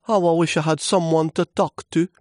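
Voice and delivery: high, wistful little leaf voice; lonely sigh. Acted. Lonely leaf wanting someone to talk to, high sighing. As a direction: wish it aloud in a high, sighing voice. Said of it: "he sighed".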